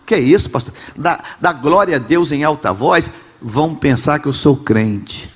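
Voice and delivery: a hint of a timid churchgoer, a bit hushed; mock the shy member afraid to praise; embarrassed believer. Pastor mocking ashamed believers, lightly hushed. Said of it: "Ah, nós temos vergonha".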